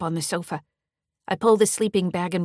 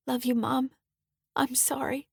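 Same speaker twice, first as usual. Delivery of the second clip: soft, higher, whispered apology; 7 semitones higher than usual. Acted. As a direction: breathe it to your mom, sorry. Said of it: "says in a soft voice".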